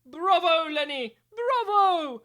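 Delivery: rising loud cheer; proud praise. Acted. Teacher cheering Lenny for finally meowing.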